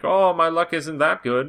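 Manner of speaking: mock the guy with a terrible Irish brogue, drawn out; bad Irish accent. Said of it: "that was a very terrible Irish accent".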